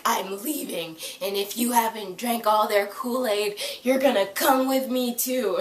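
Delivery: mock drama-queen ultimatum; mildly hammed-up princess huff, building at the end; melodramatic overdone princess. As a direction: imitate an overdone princess making demands. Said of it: "Simon has become this melodramatic, overdone princess".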